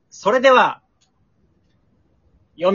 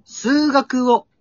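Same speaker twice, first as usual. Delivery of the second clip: very slow recitation; 5 semitones higher, much slower than usual. Acted. Reciting very slowly.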